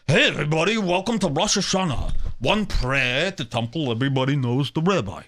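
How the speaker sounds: a hint of a brash sports boss; Dave Portnoy impression. Host talking to his fans, in a lightly brash voice. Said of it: "Everybody knows Dave Portnoy".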